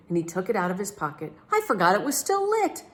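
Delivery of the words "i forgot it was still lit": much higher, flustered voice; flustered captain. A narrator's reading. Captain admitting his mistake, flustered. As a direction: blurt it out sheepishly.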